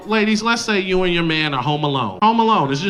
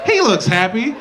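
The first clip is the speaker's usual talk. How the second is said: put-on content girlfriend; 3 semitones higher than usual. To the ladies, laughing easygoing girlfriend. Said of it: "Do you go".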